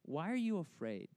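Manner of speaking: measured, unruffled question; calm Jesus. Retold or imitated. Jesus to frightened disciples after calming the storm, calm question. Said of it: "he turns to them, and he says".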